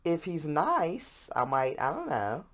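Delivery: mock-hesitant girl weighing it up; unimpressed girl. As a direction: girls indifferent to the host. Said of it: "girls see me and they go".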